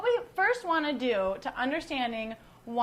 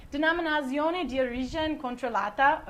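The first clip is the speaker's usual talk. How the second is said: amateur Italian accent on the wine term; American attempt at an Italian accent; horrible Italian accent. Shown as a demonstration. Host reading label phrases for Italians to laugh at, amateur Italian accent. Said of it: "horrible Italian accent".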